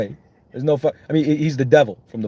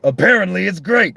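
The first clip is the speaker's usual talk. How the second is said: cool quip; 9 semitones higher, 6 dB louder than usual. Retold or imitated. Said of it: "He's like".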